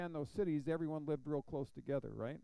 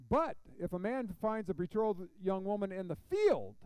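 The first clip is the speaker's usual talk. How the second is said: louder Bible verse reading; scripture reading; 4 semitones higher, 6 dB louder than usual. Acted. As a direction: read the verse out firmly to the room. Reads scripture aloud to congregation.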